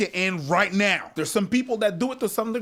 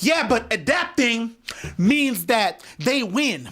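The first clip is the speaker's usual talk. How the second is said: voice of the other side; 5 semitones higher, slower than usual. Acted. Acted debate between two voices.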